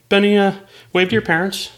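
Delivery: lightly put-on circus host voice; clown host. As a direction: play a clown directing a young volunteer. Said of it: "the clown asks his name".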